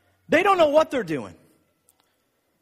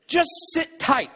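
slow mocking quote; 3 semitones higher, slower than usual. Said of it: "I got an email".

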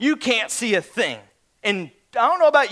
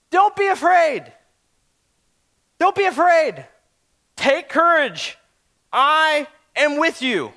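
firm reassurance; 4 semitones higher than usual. Acted. Jesus reassuring the terrified disciples.

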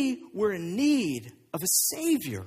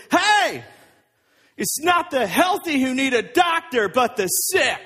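acted yell out the window; raised, projecting mock yell; Jesus; 2 semitones higher, 4 dB louder than usual. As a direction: call out loudly so those outside can hear. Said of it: "he yells it out the window".

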